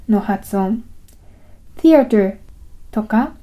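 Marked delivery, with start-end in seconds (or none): 1.8-2.4 theater with a voiceless th, tongue between teeth; English th. Shown as a demonstration. Teacher demonstrating English th, voiceless dental fricative. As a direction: hiss the th of theater. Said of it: "英語のth".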